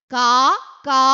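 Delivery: mock crow cawing. Shown as a demonstration. Teacher imitating the crow's call. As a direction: caw like a crow for the kids. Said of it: "എന്നാണ് ഞാൻ കരയുന്നത്".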